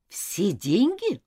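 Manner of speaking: slow, drawn-out disbelief; incredulous, stretched-out question; shocked exclamation. Acted. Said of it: "воскликнула Нора".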